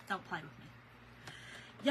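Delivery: "Don't play with me" whispered slowly. Retold or imitated. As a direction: breathe it slowly like a soft threat. Repeats her warning to exterminator.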